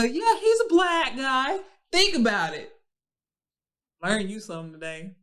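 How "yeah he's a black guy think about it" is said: high, loud and slow, mocking a white guy; mock white guy saying "black guy", slow and loud. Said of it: "White people say the whole word".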